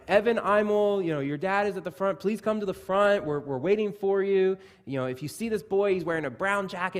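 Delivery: lightly voiced store announcer paging a lost boy; store announcement. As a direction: call it out like the store intercom. Store loudspeaker calling lost kid.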